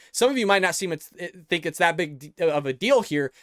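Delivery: tripping over the words, restarting; worked-up stuttering. Real, not acted. Host stressing the vote to viewers, stuttering. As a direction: stumble mid-sentence and restart, too worked up to get it out. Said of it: "I'm stuttering because it is a massive deal".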